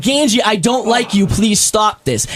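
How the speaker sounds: slow, deliberately calm retelling; imitating his own calm plea; lightly voiced calm request; mock calm.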